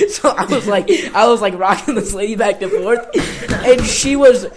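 laughing through the words; giggling while telling it. Real, not acted. Laughing while telling airplane story.

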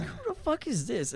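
high and hushed groggy question; half-asleep bewilderment. Retold or imitated. Sleeper puzzles over the stranger at the window, groggy. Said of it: "'Cause I'm, like, still asleep".

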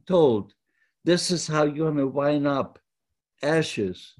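lightly voiced cruel overseer mocking the prisoners; taunting barrack boss. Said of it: "he came out speaking a broken German".

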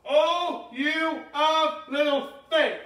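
slow, drawn-out reproach, rising at the end; a gentle teacher's rebuke to his followers; mild rebuke. Acted. Jesus to fearful disciples, slow mild rebuke.

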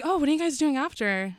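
high-pitched casual fishing question; eager fan. Retold or imitated. Fans asking the comedian about after the show, high imitated voice. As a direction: imitate a fan angling for an invite.

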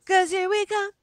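very high chipmunk squeak; squeaky chipmunk catchphrase. Pretend. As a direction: play up the high-pitched chipmunk act. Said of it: "You do a little bit".

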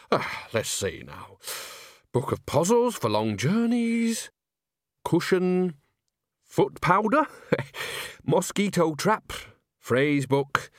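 slow item-by-item muse, pitch rising; absent-minded character voice, drawing out each item; Nanny Ogg, preoccupied. A narrator's reading. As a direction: think aloud while rummaging through a bag. Nanny absently lists bag contents.

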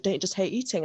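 imitating him dead serious; understated, earnest question; retold deadpan. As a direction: say it straight, as if you truly mean it. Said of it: "he was dead, like, he looked me in the eye".

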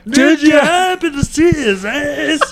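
put-on southern accent. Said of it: "You sound like a southern lesbian".

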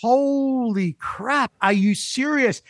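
slow, drawn-out holy crap; stunned, stretching the words out; amazed disbelief. Retold or imitated. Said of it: "And I'm like".

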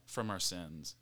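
breathless, trailing off quietly; running out of air; out of breath. Real, not acted. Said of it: "I'm out of breath".

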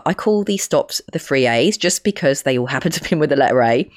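hoarse voice from a cold; croaky, rough from a cold. Real, not acted. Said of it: "my really strange croaky voice".

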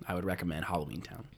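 low conspiratorial whisper. Pretend. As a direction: share it like a secret tip. Mock-secret recommendation.

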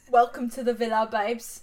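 put-on Love Island host in a British accent; posh British host greeting. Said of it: "We do the whole thing in a British accent".

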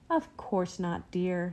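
slow, soft, soothing reassurance; gently calm her down, slowly. Acted. Mother soothing her upset daughter at dinner, slow and soft. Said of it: "soothed Mama".

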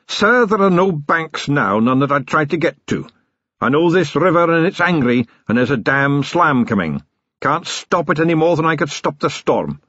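a hint of a grim riverman; grim boatman. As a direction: warn him the river can't be stopped. Sillitoe on the angry river.

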